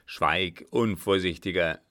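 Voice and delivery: put-on stern old man's cry. Father striking and silencing his son, commanding. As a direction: silence him with a stern rebuke. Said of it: "rief der Alte".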